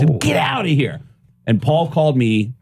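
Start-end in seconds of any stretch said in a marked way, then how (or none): 0.2-1.0 high, incredulous "Get outta here"; mock amazement, pitched way up; disbelief. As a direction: pretend you can't believe it. Repeats his disbelieving reply.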